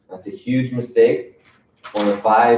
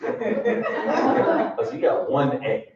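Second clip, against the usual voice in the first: mock dad line, laughing, softer; dad calling out the son's grades, laughing; laughing dad retort; 3 semitones higher, 6 dB quieter, much slower than usual. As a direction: catch him out with a chuckle. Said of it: "that's what I would say".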